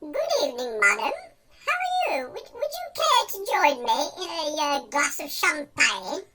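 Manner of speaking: put-on posh gent's accent. Man inviting a woman for champagne, posh accent. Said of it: "using my posh accent for this one".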